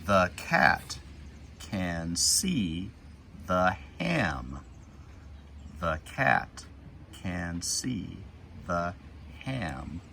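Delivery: put-on slow, clear read-aloud for kids; deliberate storybook reading; reading to children. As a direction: read each word slowly as you point. Reading picture book to kids.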